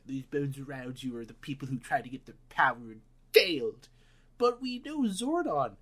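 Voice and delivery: lightly put-on British accent, rising high at the end; a hint of a grand British warrior woman; mock British accent. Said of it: "she's British, by the way".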